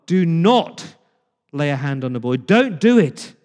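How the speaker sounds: God halting the knife; urgent command. Retold or imitated. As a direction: forbid it with urgency. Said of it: "Verse twelve".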